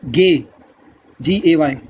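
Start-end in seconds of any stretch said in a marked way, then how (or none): 0.1-0.4 गे said "gay" with hard G; German letter G. Shown as a demonstration. Teacher showing learners German G, hard-G गे. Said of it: "जी का आएगा".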